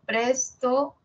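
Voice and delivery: "presto" with the accent on "pres"; stressed first syllable. Shown as a demonstration. Teacher demonstrates suprasegmental accent, stress on first syllable.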